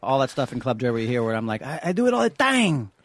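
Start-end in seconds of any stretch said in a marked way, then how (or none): 1.6-2.9 put-on Juan Castillo accent. Replaying his Club Dread character line in a hammed-up Venezuelan Spanish accent. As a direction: ham up a Spanish accent borrowed from David. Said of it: "the N G is yours".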